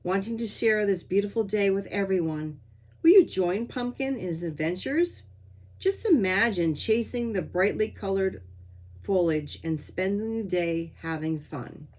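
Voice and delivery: measured storytelling, pausing between phrases; children's story reading. Acted. Author reading cat Pumpkin's autumn adventure, measured storytelling. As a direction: read it phrase by phrase like a picture book. Reads children's piece aloud.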